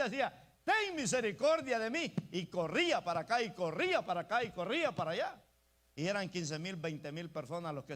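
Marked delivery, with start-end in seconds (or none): 0.6-2.1 loud, high plea for mercy; shouting like mad. Acted. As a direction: cry out desperately over the crowd. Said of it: "empezó a gritar como loco".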